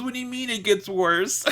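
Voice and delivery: high-pitched imitation of her upset; high, hammed-up distressed question; mock tearful protest. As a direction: wail it in mock dismay, near laughter. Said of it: "She is crying so hard".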